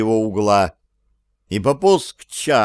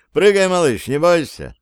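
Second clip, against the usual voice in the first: calling up; 7 semitones higher than usual. A narrator's reading. Зовёт домового с люстры.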